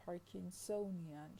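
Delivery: Parkinsonian stressed on SO, slowly; stress on third syllable. Shown as a demonstration. Lecturer shows a stress shift, slow stress on third syllable. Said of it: "Parkinsonian is stress on the third".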